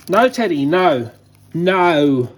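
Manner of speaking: loud command to the dog; firm no. Real, not acted. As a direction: stop the dog firmly. Stopping dog catching cicada.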